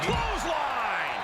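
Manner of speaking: drawn-out, high call of the move; excited call. Real, not acted. Commentator calling the clothesline, slow and high. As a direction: stretch the word out as the hit lands.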